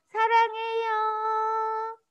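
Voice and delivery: very slow, sustained "I love you"; long, held-out demonstration; drawn-out affection. Shown as a demonstration. Models the phrase for the children.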